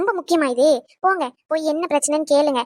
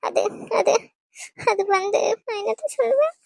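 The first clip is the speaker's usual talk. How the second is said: flustered stammer; 4 semitones higher than usual. Acted. Grandma cornered, stammering.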